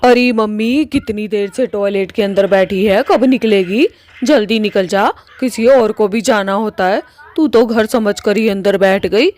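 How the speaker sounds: loud, impatient yelling through a closed door; shouting at mom. Acted. Daughter yelling at her mother stuck in the toilet, loud and impatient. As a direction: bang on the door with your voice, calling her out.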